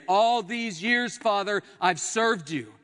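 loud, high, drawn-out plea; indignant protest. Acted. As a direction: plead your record of service. Churchgoer protesting before God's throne.

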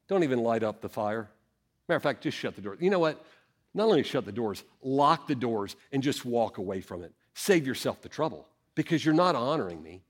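low, soft, weary-sounding dismissal; the Lord's rebuke. Acted. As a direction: quietly send them away, voice held down. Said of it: "the Lord's take is".

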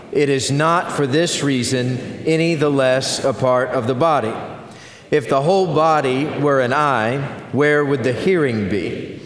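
congregation reading aloud together; many voices in unison. Real, not acted. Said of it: "We are going to read aloud together".

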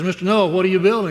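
put-on quick, loud, high-pitched boy's question; lightly acted eager child; little boy. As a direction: call out like an inquisitive kid. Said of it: "Little boy wanders in one day".

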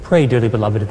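ordinary talk

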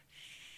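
soft, drawn-out shush; long quiet "shh". Acted. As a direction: cut yourself off with a hush. Acts out disciples hushing people.

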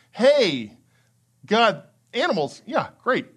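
unimpressed. Retold or imitated. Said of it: "This is saying".

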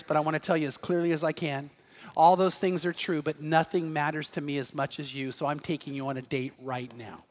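soft, fading tender words to his wife; tender quiet. Retold or imitated. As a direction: speak it gently to your wife, dropping to almost nothing.

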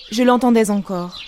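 ordinary delivery, nothing marked

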